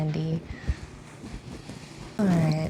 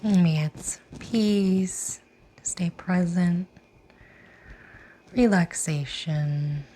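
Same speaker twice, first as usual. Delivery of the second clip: guided meditation. Real, not acted. Yoga teacher inviting class to set an intention, guided meditation. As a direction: lead them gently inward, lingering on the phrase endings.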